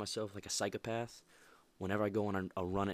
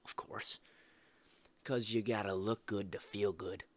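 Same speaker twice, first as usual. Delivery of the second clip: whispered aside; slower than usual. Real, not acted.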